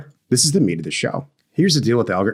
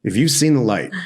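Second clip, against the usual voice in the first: cult leader; 3 semitones higher, 4 dB louder than usual. Acted. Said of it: "I sound like a cult leader".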